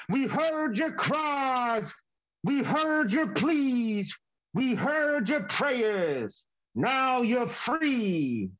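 very slow, each word weighed; slow rescuers' proclamation; slow solemn proclamation. Pretend. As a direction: announce rescue, slowly and gravely. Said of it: "the cavalry to say".

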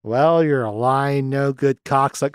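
slow, matter-of-fact movie quote; offhand imitation of a cool put-down; casual insult. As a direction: draw it out calmly, without an outburst. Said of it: "I just like the way he says it".

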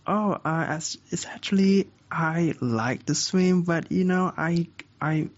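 high, hesitant cat voice; storybook cat. Acted. Cat explaining itself to the dog, hesitant character voice. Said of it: "the cat said back to the dog".

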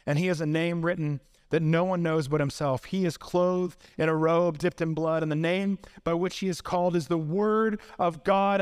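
measured, weighty recitation; solemn scripture reading. Real, not acted. Preacher reads Revelation's rider on the white horse, solemnly. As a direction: recite the prophecy gravely, line by line.

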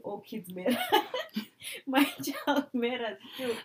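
loud, high, laughing mock protest; mock self-centered interrupter. Mocking someone who hijacks a grieving mom, loud and high. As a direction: squeal it like a petty intruder. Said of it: "you jump in and say".

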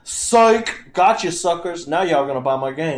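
loud taunting gotcha; mock gloating company. Mocking the company's voice.

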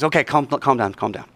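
acted soothing aside; retold calming. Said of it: "one of the guys goes".

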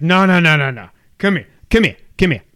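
imitated New York pizza man; New York accent. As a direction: beckon them over in a put-on New York accent. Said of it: "This is how he talks".

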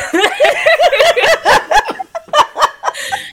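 big high-pitched laugh; loud high laugh. Real, not acted. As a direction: burst out laughing.

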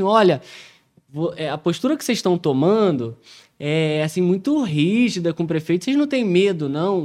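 a stranger giving an ominous warning. Retold or imitated. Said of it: "falaram assim".

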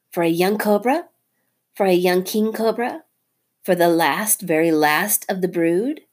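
taunting mongoose. Acted. Rikki taunting Nagina over the last egg. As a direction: drive the price up.

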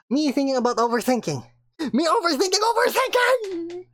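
overthinking! shouted high and stretched; rising frantic. Acted. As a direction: spiral up into panic. Reading meme, building up.

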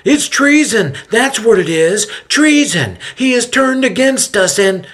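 loud, high, nasal outburst; outraged high nasal shouting; high-pitched nasal yell. A narrator's reading. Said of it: "a high-pitched, nasally voice yells out".

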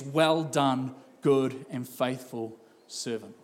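low, slow, measured praise; solemn commendation. Acted. Judge to a believer at the end of time, solemn commendation. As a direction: soften and drop into a solemn blessing.

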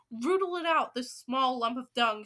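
loud, emphatic hunting order; acted screech. Grand High Witch ordering them to rootle, screeching. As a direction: screech the order, hammering the words. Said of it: "screeched the Grand High Witch".

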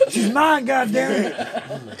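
high, laughing, slow goddamn it; laughing mock claim. Friends jokingly fight over Isabel, laughing mock claim. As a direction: claim her through laughter, dragging it out.

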